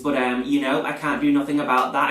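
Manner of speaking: echoey bathroom sound; big hall echo. Real, not acted. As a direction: voice bouncing off tiles. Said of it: "I am in my echoey bathroom".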